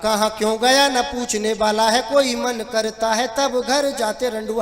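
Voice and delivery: rhythmic recited comic refrain; verse refrain. Acted. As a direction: deliver it as a lilting stage couplet. (लयदार हास्य कविता पाठ)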